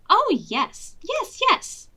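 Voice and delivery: high, eager yes yes; eager cry. Acted. Dog fooling Granny, eagerly crying yes. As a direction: gush it like an excited dog in disguise. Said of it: "cried Mister Dog".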